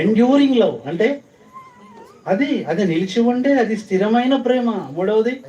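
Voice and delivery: high, loud pulpit voice; fiery sermon delivery; full-force preaching. Real, not acted. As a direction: drive each point home to the congregation.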